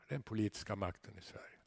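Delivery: fast, hushed whisper; whispered aside. Real, not acted. Pastor confiding to the congregation in a fast whisper. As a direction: lean in and whisper it quickly.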